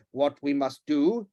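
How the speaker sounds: slow, bitten words; spitting out the words. Acted. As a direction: spit each word out. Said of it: "spitting out the words".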